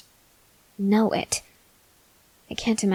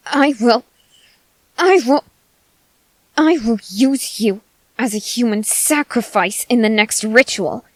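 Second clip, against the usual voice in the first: rising threat, louder on each I will; menacing threat; 2 semitones higher, 4 dB louder than usual. Acted. Threatening the listener with sacrifice.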